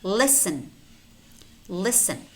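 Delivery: listen with no T, "lissen"; just an S in the middle of listen; silent T. Shown as a demonstration. Teacher models silent letters for learners, silent T in listen. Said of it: "but it's not pronounced".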